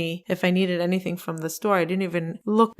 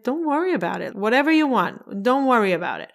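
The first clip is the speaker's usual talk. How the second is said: lightly imitated husband, higher then settling; retold easygoing reassurance; reassuring husband; 4 semitones higher than usual. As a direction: wave the worry away, pitched up.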